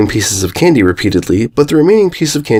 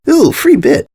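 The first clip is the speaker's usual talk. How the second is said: delighted ooh; slower than usual. Acted. Candy spots a coin again.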